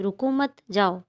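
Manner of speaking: "रुको मत" as one group, then "जाओ" apart; pause after मत. Shown as a demonstration. Teacher repeats the same sentence for children, pausing after "मत". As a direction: join "रुको मत", pause briefly before "जाओ". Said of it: "एक ही वाक्य है".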